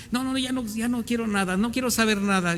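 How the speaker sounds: a wounded believer's voice saying it's over; despairing refusal. Acted. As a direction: push the Lord away, hurt and tired. Voicing a hurt believer giving up.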